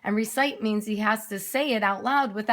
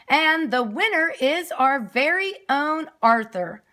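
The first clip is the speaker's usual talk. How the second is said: much higher and louder, grand announcer voice; PA announcement; 7 semitones higher, 5 dB louder than usual. Acted. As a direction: proclaim it over the loudspeaker, slowing on the winner. Principal announces on PA system.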